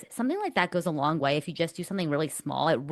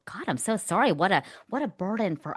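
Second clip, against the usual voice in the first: joking sarcasm; 4 semitones higher than usual. Retold or imitated. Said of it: "reminiscing and joking around with this".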